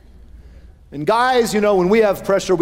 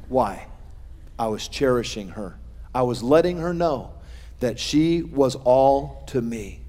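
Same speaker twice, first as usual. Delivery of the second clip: softer, lowered, heartfelt tone; tender; 5 semitones lower, 5 dB quieter than usual. Real, not acted. Preacher recalls cherishing his wife, tender and soft. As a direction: drop it soft and sincere.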